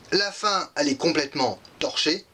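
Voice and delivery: talking through hiccups. Real, not acted. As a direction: speak while hiccuping. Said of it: "Excusez-moi, j'ai le hoquet".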